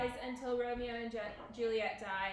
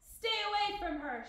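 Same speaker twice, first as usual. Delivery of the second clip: high, raised-voice warning; shouted; 8 semitones higher, 5 dB louder than usual. A narrator's reading. Paris warning Romeo off Juliet, shouted. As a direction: call it out sharply in character. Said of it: "shouted Paris".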